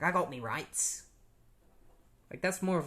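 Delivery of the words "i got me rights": slow mock British accent; drawn-out British-style delivery; Captain Boomerang. Shown as a demonstration. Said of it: "a British way of speaking".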